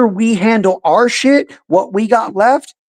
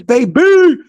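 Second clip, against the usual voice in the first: gloating shout; 8 semitones higher, 4 dB louder than usual. Real, not acted. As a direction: crow it at them. Gloating taunt.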